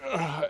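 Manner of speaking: mild acted "ugh" of being shoved; retold shove grunt; grunt of impact. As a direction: grunt as if knocked off balance.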